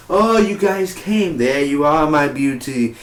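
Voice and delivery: lightly hammed-up villain's welcome; Vandal. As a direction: start high and drawn out, then settle. Acts out the villain greeting.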